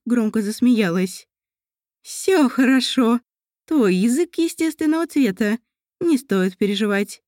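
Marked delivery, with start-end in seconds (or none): 2.0-7.2 slow, soothing elf mother; calm her daughter; reassuring mother. Acted.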